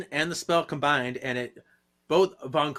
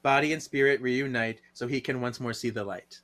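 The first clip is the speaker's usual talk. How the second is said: spell recital. Shown as a demonstration. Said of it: "I'm gonna say the spell altogether".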